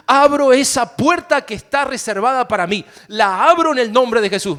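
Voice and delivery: rising into loud, fervent proclamation; bold declaration. Pretend. Pastor acting a believer declaring over a job, loud. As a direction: claim the open door with authority.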